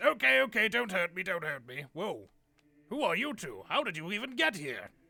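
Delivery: little toad man character voice. Voicing a little toad man who steps out from behind a desk: Toadsworth voice. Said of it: "And he goes".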